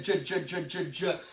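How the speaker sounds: imitating a halting reader; stuck reader's stammer. Friend sounding out a script word, mock stammer. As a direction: stutter on the first sound, over and over. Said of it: "he got stuck on the first word".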